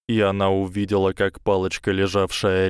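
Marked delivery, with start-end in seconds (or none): none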